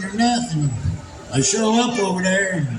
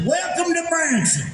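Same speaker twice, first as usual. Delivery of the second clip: retold cheery announcement; 8 semitones higher than usual. Johnny greets the crowd after the turkeys drop, mock-cheery announcement. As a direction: call out a welcome in a raised pitch.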